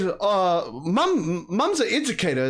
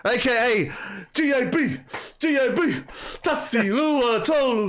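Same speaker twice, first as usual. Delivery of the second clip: high, sing-song MC roll call; hype introduction; 6 semitones higher than usual. Acted. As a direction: announce him like a ring entrance. Hype intro listing guest's names.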